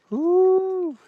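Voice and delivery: long high loud "woo"; sustained, celebratory whoop; triumphant whoop. Real, not acted. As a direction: whoop at full voice from the summit. Whoop at the top.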